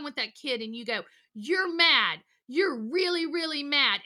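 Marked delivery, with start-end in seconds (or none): 1.3-4.0 put-on louder, punchy echo of the kid's anger; a touch of caveman intensity; caveman mirroring. Shown as a demonstration. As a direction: mirror the child's mad back at him. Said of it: "he talks about this caveman idea".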